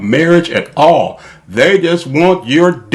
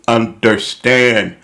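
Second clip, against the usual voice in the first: slow, even robot voice; slower than usual. Acted. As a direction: spell it out like a robot. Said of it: "I'm talking like a robot".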